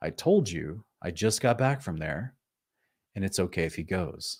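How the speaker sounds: stern, hushed delivery. Retelling a story, the speaker voices the angel answering a man, acting out a stern reply. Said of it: "he kind of spoke to him very sternly".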